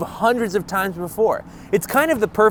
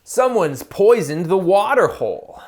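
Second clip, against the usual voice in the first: nature narrator; 2 semitones higher than usual. Acted. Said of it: "as long as I'm narrating the subtext".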